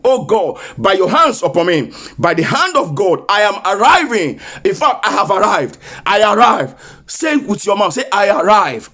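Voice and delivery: steady declaring prayer, each line hammered; leading a prayer. Acted. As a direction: lead the church in a decree. Leads congregation in prayer.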